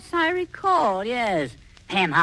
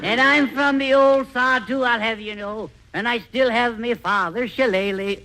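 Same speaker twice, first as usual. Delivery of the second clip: mock Irish brogue; 5 semitones higher than usual. Charlie hams an Irish brogue at Dennis. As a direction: puff up like an old Irishman. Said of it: "Your Swedish accent is showing".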